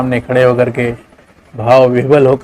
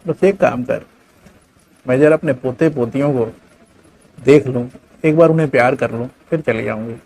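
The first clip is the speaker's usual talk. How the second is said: sad mother. Acted. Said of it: "माँ ने कहा".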